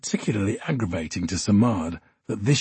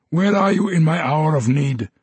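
much higher and louder, crying out; anguished cry; 7 semitones higher, 4 dB louder than usual. Acted. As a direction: fling the last word out in anguish. Samad crying out to Archie.

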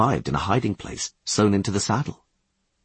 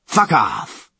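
rough shout; 2 semitones higher, 4 dB louder than usual. Acted. Commandant shove.

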